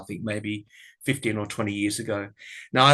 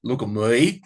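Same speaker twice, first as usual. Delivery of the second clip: Kath's catchphrase; 4 dB louder than usual. Retold or imitated. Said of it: "in the way that she says it to her daughter".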